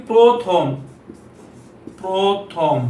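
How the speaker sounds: প্রথম with the first vowel as a long o; teacher models প্রথম with a rounded o; o-sound demo. Shown as a demonstration. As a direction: draw out প্রথম in two parts, "proo-thom". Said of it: "ওকারের মতো উচ্চারণ".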